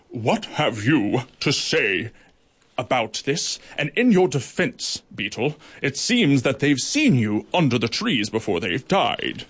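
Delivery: magisterial judge. Acted. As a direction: speak down from the bench. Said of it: "in his most magisterial voice".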